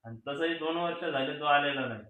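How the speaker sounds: quiet confession. Acted. Son quietly explains the prank to his brother. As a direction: own up gently. Confessing why they staged it.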